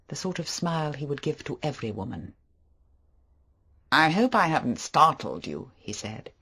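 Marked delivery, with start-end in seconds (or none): 3.9-5.7 Favell. Acted. Favell voiced.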